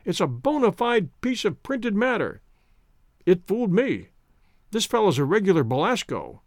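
lightly voiced delighted drunk; a hint of a giddy enthusiast; tipsy admiring man. Drunk man marvels at books.

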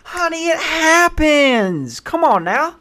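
put-on high, sing-song soothing old lady; sweet old lady. Counter lady comforting a panicked traveller. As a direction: reassure him, honey, it happens. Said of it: "The sweet old black lady's".

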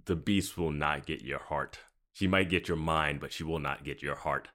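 lightly voiced, low solemn knight. Knight's solemn vow, acted.

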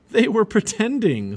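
high, loud, drawn-out exclamation; amused realisation. A narrator's reading. Boy fooled by cubs playing still, amused realisation. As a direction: exclaim it, tricked and tickled.

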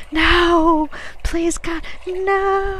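high, loud scream of terror; ear-piercing scream. A narrator's reading. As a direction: scream and beg for your life. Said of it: "ear-piercing, ear-shattering scream".

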